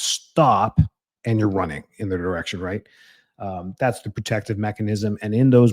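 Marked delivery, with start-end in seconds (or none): 0.0-0.8 a firm, louder shouted stop, mock yell; retold scream. Parent warning a child stepping into the road, mock yell. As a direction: call out stop as if a child is near traffic. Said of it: "You're screaming at the top of your lung-, lungs".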